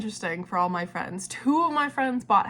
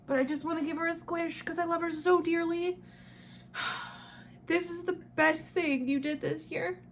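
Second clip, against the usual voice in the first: high, soft voice, welling up; real happy tears, squeezed high; tearful; 5 semitones higher, 5 dB quieter than usual. Real, not acted. Vlogger cuddling their beloved cat, tearful. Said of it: "I'm crying all over you".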